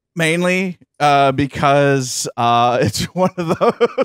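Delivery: words broken up by laughter. Host sorting companies into naughty or nice: laughing while talking. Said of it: "Sorry, I'm laughing".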